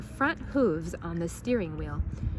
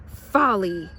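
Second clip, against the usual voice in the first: louder flat scorn; disdainful; 6 dB louder than usual. Acted. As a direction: sniff it with disapproval. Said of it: "she said".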